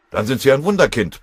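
loud, high-pitched sarcastic bluster. A narrator's reading. Foreman answering a shivering fitter, loud blustering. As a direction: thunder back at the whiner. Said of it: "polterte Schöppel".

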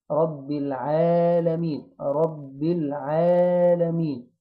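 slow recitation with long "aa" in العالمين; measured, elongated العالمين with an unthickened ayn; light ayn. Shown as a demonstration. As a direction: draw out رب العالمين, keeping the ayn thin. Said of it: "محدش يفخم العين".

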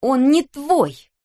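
high, slow furious snap; a daughter snapping at her mother's dealer. A narrator's reading. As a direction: bite his head off. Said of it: "огрызнулась Кристел".

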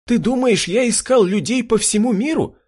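high-pitched, indignant near-screech; rising to a shriek. A narrator's reading. Jurgen protests to his brother about searching for people, shrieking high. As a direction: let the voice climb into a squeal. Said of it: "Голос Юргена перешёл на визг".

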